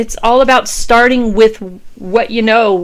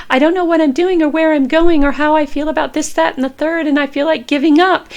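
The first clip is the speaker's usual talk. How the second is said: mock frantic self-talk; 6 semitones higher, faster than usual. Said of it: "step into this whole".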